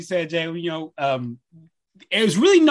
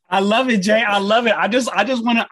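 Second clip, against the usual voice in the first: excited; 3 semitones higher, 5 dB louder than usual. Real, not acted. Host cheering with an emotional co-host.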